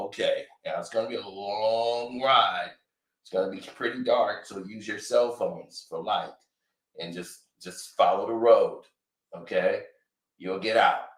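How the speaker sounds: tired son pleading with his father; Drake scolding dad. Retold or imitated. Drake directing women.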